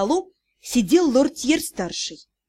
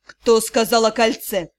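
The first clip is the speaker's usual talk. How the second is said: глухо; 4 semitones lower than usual. Acted. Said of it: "Риан прервал меня глухим".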